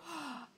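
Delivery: soft acted gasp of realisation; retold gasp. Fan re-enacting their reaction while watching, gasping. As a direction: draw a quick, quiet mock gasp. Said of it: "I go".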